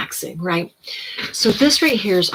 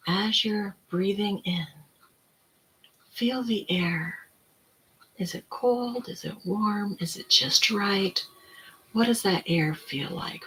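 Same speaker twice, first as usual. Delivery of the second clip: slow, softer soothing voice, like a counselor guiding breath; 4 dB quieter, slower than usual. Retold or imitated. Counselor guiding a client's breathing, soft and soothing. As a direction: ease each question out gently and slowly. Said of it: "very soft voice, very soothing".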